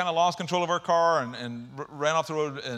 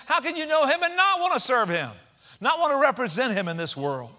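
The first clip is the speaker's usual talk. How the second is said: much higher, louder preaching; preaching climax; 8 semitones higher, 4 dB louder than usual. Real, not acted. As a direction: build to a ringing peak.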